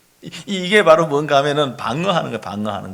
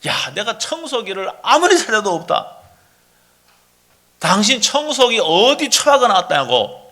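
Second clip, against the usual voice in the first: higher-pitched, blame-shifting spouse; acted defensiveness; 4 semitones higher than usual. Spouse blaming the other for the missing vacuum, acted defensiveness. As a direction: protest and push the blame back, mock quarrel. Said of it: "방어하는 건 어떻게 이야기하는가 하면은".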